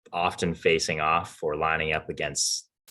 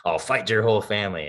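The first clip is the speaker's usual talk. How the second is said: mock threat just after a chuckle, higher and quick; amused retold threat; 4 semitones higher, 3 dB louder, faster than usual. Hockey player retelling a rival's face-off threat, amused. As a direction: quote the tough guy, barely over your own laughter. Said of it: "I can't say that without laughing".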